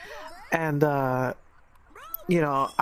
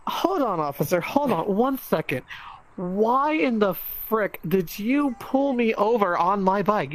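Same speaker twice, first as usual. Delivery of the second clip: retold exasperation, leaning on each word; exasperated demand; 2 semitones higher, 3 dB louder than usual. Bike rider challenges departing officer over the stop, exasperated. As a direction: act out stopping the cop to demand answers.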